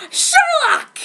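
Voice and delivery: hammed-up twist reveal; dramatic reveal. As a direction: unveil the name.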